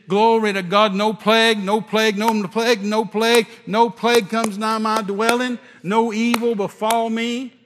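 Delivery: loud, fervent repeated declaration; shouted declaration. Retold or imitated. Preacher shouting scripture at the devil, loud and fervent. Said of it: "how many times I've shouted that".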